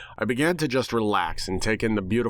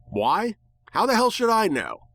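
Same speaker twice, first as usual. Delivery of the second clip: exasperated; 11 semitones higher than usual. Acted. Exasperated outburst.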